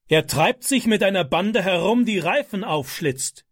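high, accusing outburst, slowing at the end; mild mock yell at the frightened wife; shouting at wife. A narrator's reading. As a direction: rail at his wife. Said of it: "schrie er seine erschrockene Frau an".

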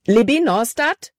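calling out in sudden fear; boy panicking over a sobbing girl; panicked. Acted. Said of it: "Calebs Stimme war panikerfüllt".

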